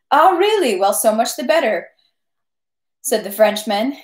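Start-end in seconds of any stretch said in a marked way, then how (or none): 0.1-1.9 high, pleased surprise; light mock astonishment; surprised captain. Captain hearing Pierre was there, pleasantly surprised.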